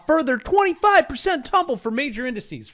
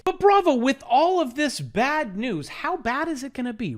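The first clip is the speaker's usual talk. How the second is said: mock interviewer; 7 semitones higher than usual. Fake TV host pitching a question to Bravo. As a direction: play a cheesy host quizzing himself.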